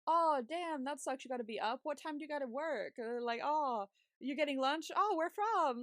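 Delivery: feigned casual interest, lightly put on; retold innocent-sounding questions, pitch lifting on some; sly, casual fishing. Friend texting to work out where she'll be, slyly casual. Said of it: "I was trying to be sly about it".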